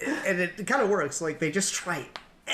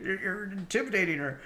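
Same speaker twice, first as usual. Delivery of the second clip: Gohan; 6 semitones higher than usual. Retold or imitated. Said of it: "and he's like".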